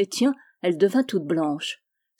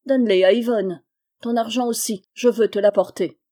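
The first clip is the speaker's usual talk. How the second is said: louder, indignant rejection; jealous anger; 2 semitones higher, 4 dB louder than usual. Acted. Jealous girl returning rings to her lover, indignant. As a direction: throw it back at them, hurt and proud.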